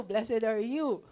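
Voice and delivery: drawn out slowly, proclaiming; slow, reverent declaration; slow solemn repeat. Retold or imitated. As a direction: stretch each word like a blessing. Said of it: "he started actually".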